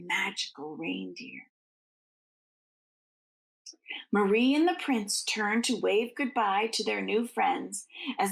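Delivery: gentle bedtime storytelling; storybook narration. Acted. Reading the Nutcracker aloud to children, gently paced. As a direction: read it like a picture book to little ones.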